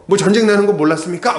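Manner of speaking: hammed-up indignant retort; mock scolding retort. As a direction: snap back as if scolding. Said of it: "면박을 주거나".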